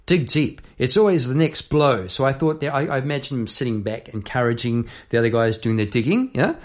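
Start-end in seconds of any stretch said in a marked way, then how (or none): 0.1-2.1 lightly voiced boss egging on the diggers; J J's voice. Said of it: "I used J J's voice here".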